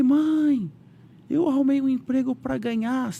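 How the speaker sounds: can't hold the good news in; excited news. Retold or imitated. Son telling his mother he got the job, high and thrilled.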